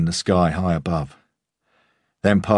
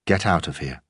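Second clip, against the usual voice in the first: calm. A narrator's reading. Senior officer ordering Wolf out, calm and even. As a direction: keep it cool and controlled. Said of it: "Whitestone said calmly".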